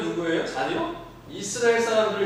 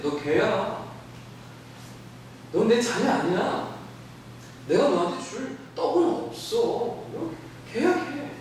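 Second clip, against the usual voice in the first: Jesus rebuffing; 3 semitones higher than usual. Acted. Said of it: "주님이 이 여인한테".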